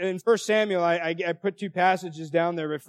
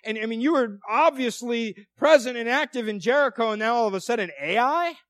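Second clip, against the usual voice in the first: pleading cry; 4 semitones higher than usual. Retold or imitated. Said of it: "he's crying out before God".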